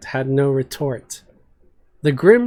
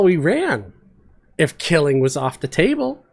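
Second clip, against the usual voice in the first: frustrated fighter, higher and heated; Flint's angry rant; 3 semitones higher than usual. Acted. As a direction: rail against giving up without a fight. Flint rants in the cell.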